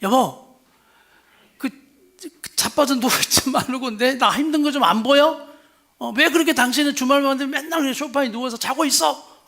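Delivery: a wife's mock complaint at her lounging husband; nagging wife. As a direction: scold the husband on the sofa. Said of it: "이렇게 말하는 거예요".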